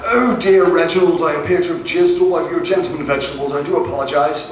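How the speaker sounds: mock-polite, flustered British apology; reserved British apology. British comic parodying British porn to the audience, politely flustered. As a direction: apologize fussily, rushing the embarrassing part. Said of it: "if you've ever watched British porn".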